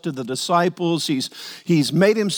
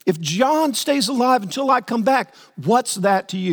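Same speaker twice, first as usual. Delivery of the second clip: higher, firm rebuke; confronting Jesus; 6 semitones higher than usual. Retold or imitated. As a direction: set him straight.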